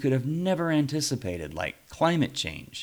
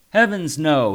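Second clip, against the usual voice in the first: emphatic; 6 semitones higher, 8 dB louder than usual. A narrator's reading. Luther denies being Al.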